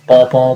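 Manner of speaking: loud, slow spoken horn toots; mimicking a warning horn; imitated horn honk. Shown as a demonstration. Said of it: "जैसे भोपू का पौ नहीं होता".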